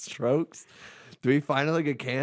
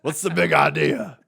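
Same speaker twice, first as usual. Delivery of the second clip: loud, higher Aussie lament; Australian accent; 6 semitones higher, 9 dB louder than usual. Retold or imitated. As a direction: cry out to God, Aussie style. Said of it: "Steve Irwin's like".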